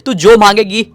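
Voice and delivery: high, loud panicked calling for a lost daughter; frantic father calling. Acted. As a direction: plead with rising panic, calling out. (घबराए पिता की ऊँची, ज़ोरदार पुकार)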